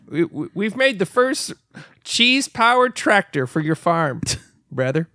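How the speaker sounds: hammed-up local tractor pitch; Minnesota ad guy. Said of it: "They don't even say brother".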